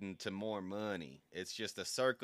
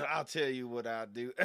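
throaty, needs clearing; speaking past a frog in the throat; 2 semitones higher than usual. Real, not acted. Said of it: "I got a frog in my throat".

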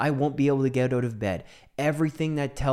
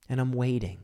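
normal talking voice

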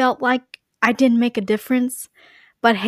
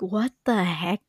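breathy whispered disbelief; whispered what the heck; 3 semitones lower, 5 dB quieter than usual. Retold or imitated. Whispering in disbelief at people posting conspiracy theories. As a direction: whisper it like you can't believe them. Quoted reaction to conspiracy posts.

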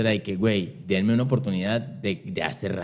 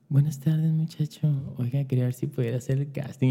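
a hint of a sugary higher voice; mom's sweet little voice; 4 semitones higher, 4 dB quieter than usual. Mom sweet-talks the radio guy, lightly sugary voice. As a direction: charm the guy on the phone. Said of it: "con una vocecita acá, bien sexy".

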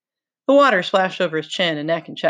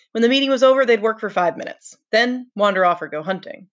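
lightly voiced boy mocking the meetings; sarcastic Ralph; 3 semitones higher than usual. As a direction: sneer at the endless talking.

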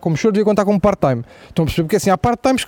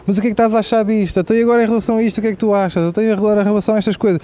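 mother distracting child; 3 semitones higher, faster than usual. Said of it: "dizer coisas ao filho".

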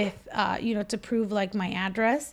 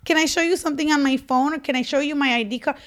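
1 exasperated plea; 2 semitones higher than usual. Retold or imitated. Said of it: "And I was looking at him like".

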